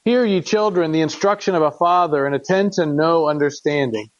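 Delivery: measured, solemn reading of scripture; earnest King James reading voice. Acted. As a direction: read it like a father pleading with his son. Reads Proverbs aloud to congregation.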